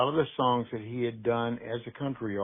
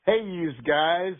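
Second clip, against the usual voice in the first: slow, higher, hammed-up Northern accent; mock Northern "yous guys"; 5 semitones higher, 4 dB louder, slower than usual. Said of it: "I go".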